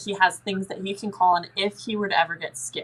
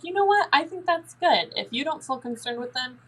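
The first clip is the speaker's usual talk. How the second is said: pitched up, reassuring and upbeat; reassuring parent, high; 5 semitones higher than usual. Shown as a demonstration. Parent reassuring the scared child about the spirit, high and encouraging. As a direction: talk the child down kindly in a higher voice. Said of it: "And you're like".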